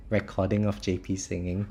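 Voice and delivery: ordinary talk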